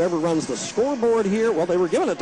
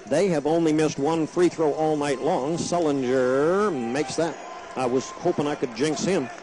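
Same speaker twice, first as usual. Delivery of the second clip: brisk radio play-by-play call; live play-by-play. Real, not acted. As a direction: call the game live on air. Resumes play-by-play.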